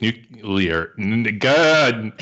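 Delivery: imitated stammer that breaks into exasperation; mock stutter. Imitating people tripping on the extra syllable, stuttering. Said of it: "then they kinda stutter".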